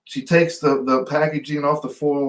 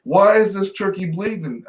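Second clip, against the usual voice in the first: higher, drawn-out demand with heavy pauses; retold indignant grandmother; 5 semitones higher, slower than usual. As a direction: imitate a scolding grandmother, jabbing each word. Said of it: "this way of pointing that finger".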